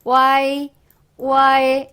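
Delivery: Y as a blended "wai"; heard fast. Shown as a demonstration. Teacher showing how it can sound, heard fast. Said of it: "빨리 들으면요, Y처럼 들리기도 해요".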